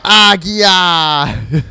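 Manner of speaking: high loud creature cry. Retold or imitated. Gamer imitating the Pokemon's cry with a high loud yell. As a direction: yell it like a small dragon's call. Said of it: "it's gonna yell at them and say".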